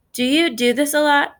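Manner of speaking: panting while running; out of breath. Acted. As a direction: gasp the question out mid-run. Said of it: "panting out the words because we're running so hard".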